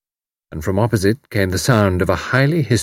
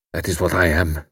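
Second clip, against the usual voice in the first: bitterly. A narrator's reading. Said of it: "Karl went on bitterly".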